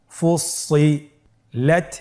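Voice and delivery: ফুসিলাত very slow, with a gap before লাত; syllables separated. Shown as a demonstration. Teacher leads learners through parts, slow separated syllables. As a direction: hold the parts of ফুসিলাত apart. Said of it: "পৃথক করে আমরা উচ্চারণ করব".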